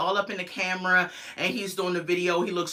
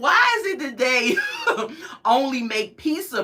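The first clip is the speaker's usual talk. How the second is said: high, louder question breaking into a laugh; laughing disbelief; 7 semitones higher, 5 dB louder than usual. Retold or imitated. Reviewer laughing at a show friend's pizza, high and louder. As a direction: laugh through the baffled question. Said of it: "And I was like".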